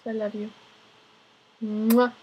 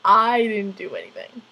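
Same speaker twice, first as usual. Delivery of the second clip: louder, protesting innocence; louder insistent denial; 6 dB louder than usual. Retold or imitated. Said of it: "I would always say".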